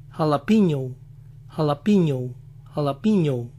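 jalapeño as alapiño, American accent; soft gringo jalapeño, no j sound, American accent. Shown as a demonstration. Showing how Americans say jalapeño, American accent. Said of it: "Jalapeño lo dicen".

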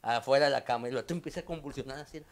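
ordinary talk, nothing marked

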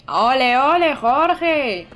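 loud cheer for a viewer; real excited cheer for Jorge. Real, not acted.

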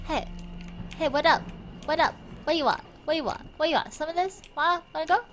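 lightly swaggering street-tough challenge; mock tough taunting. Streamer jokingly taunting the bystanders she bumps, mock tough. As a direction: play at picking a fight, half joking.

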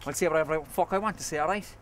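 loud, hard comeback; defiant shout. Acted. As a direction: shove the words right back at him. Rival hits back in fight.

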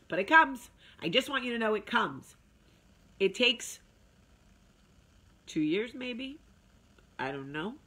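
put-on a light touch of an old grandfather; grandpa's musing voice, only lightly voiced. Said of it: "That's how my grandfather used to sound".

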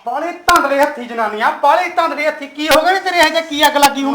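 husband scolding his wife, angry loud shouting; angry yelling. Acted. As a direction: bark at the clumsy wife.

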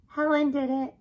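high, loud dog voice; tattling dog. Acted. Dog who always told the truth, tattling. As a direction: pipe up and tell on someone.

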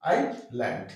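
আইল্যান্ড in two parts, "eye" then "land"; correct pronunciation. Shown as a demonstration. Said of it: "কি বলবো?".

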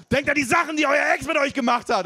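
imitating a spin coach yelling; trainer shouting. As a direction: whip up the class with a shrill call. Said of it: "brüllt die Trainerin".

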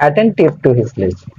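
attentive to his lesson said slowly and carefully; slow dictation. Shown as a demonstration. Teacher reads the example sentence slowly to the class. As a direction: read it out word by word. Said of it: "he is not".

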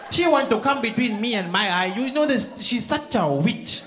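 gossiping Indian auntie voice; an Indian auntie bragging and griping. Acted. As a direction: complain like a nosy mother-in-law. Comic plays a gossiping Indian auntie.

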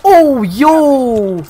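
high, loud excited disbelief; stunned excitement. Real, not acted. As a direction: holler at the lucky drop. Heroic drop, stunned excitement.

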